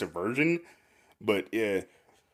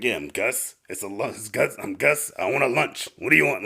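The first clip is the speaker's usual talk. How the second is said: gruff diner owner. Acted. Gus greeting a diner customer, lightly gruff. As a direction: build to a mildly brusque demand. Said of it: "Like, that kind of guy".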